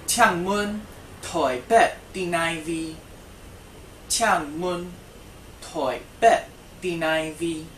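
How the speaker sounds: loud classroom model; emphatic model phrase. Shown as a demonstration. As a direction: project each word for repeating.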